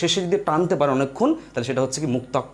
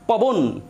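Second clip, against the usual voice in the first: পবন shut off on the final n; closed syllable; 3 semitones higher, much slower than usual. Shown as a demonstration. Teacher showing students a closed syllable, stopping পবন on its final consonant. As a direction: close the breath at the end of পবন. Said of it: "শ্বাসটাকে রুদ্ধ করে দিচ্ছে".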